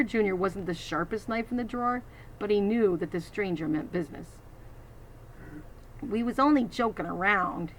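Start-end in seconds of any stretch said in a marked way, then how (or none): 6.0-7.7 timid. Acted. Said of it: "he said timidly".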